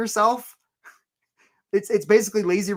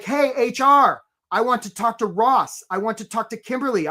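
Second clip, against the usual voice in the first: mock insistent demand; 4 semitones higher than usual. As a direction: play an eager manager demanding candidates. Acted manager demanding candidates from HR.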